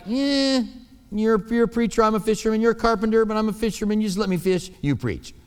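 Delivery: brushing Jesus off, mildly; a hint of a fisherman waving off the preacher; dismissive Peter. Peter shrugging off Jesus, lightly dismissive. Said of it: "I think he was like".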